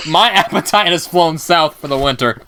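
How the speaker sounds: said through laughter; laughing. Real, not acted. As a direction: laugh while getting the words out. Laughing after gross food.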